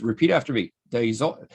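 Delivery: imitated Aussie instructor; patient Australian drilling, "dayzel"; Australian accent. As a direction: coach her in a put-on Australian accent. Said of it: "try to do an Australian accent".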